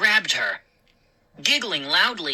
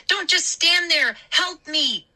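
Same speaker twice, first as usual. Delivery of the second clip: angry plea; 12 semitones higher than usual. A narrator's reading. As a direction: scold them into helping. Mindy dragged off.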